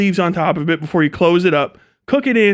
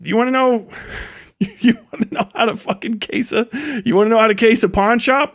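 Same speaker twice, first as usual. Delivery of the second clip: lightly voiced street guy with a laugh in it, pitching a pawn shop job; a hint of a sly hustler offering a score. Cousin pitching a pawn shop heist, lightly voiced sly hustler. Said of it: "You're like".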